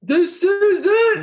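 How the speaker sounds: high, slow hyped-up bro voice, laughing; slow high bro voice through a laugh; impression of men. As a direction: ham up a karaoke dude. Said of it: "That's my impression of men".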